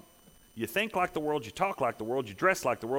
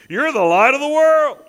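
much higher and louder, full preaching force; preaching shout; 10 semitones higher, 12 dB louder than usual. Acted. Preacher proclaiming to the congregation, loud and high. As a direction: hit the congregation with it. Preacher's climax quoting Jesus.

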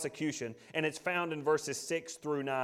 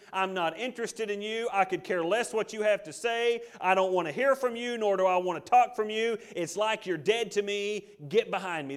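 dismissive rejection; 3 semitones higher than usual. Acted. Preacher voices someone turning their back on God, dismissive. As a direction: push God away with mounting disdain.

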